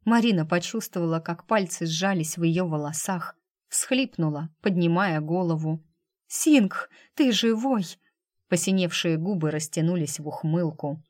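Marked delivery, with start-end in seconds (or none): 6.3-7.9 joyful cry. Acted. She finds him alive.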